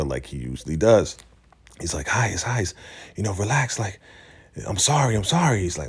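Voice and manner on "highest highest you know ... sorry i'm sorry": higher-pitched retold pleading; mock begging. River apologizes to the angry highest, mock pleading. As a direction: imitate someone trying to placate. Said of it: "River's begging for his life".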